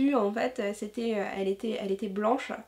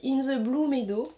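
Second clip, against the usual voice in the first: French accent; 2 semitones higher than usual. Real, not acted. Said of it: "Avec mon super accent".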